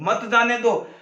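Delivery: मत जाने दो said as one separate command; मत जाने दो grouped together, apart from रोको; phrase after a pause. Shown as a demonstration. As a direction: begin afresh on मत जाने दो after stopping. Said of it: "फिर कहूं".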